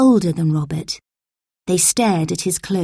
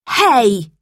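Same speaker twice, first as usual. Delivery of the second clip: louder shout from above; loud call; 4 semitones higher, 5 dB louder than usual. A narrator's reading. Toby shouts down from a window, loud call. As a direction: call out to stop them. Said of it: "came a loud voice above them".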